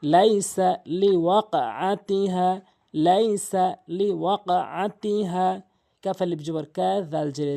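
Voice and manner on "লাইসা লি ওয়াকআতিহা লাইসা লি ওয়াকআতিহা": slow recitation with the long alif stretched; Quran recitation. Shown as a demonstration. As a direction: intone লাইসা লি ওয়াকআতিহা slowly. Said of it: "টান রয়েছে।".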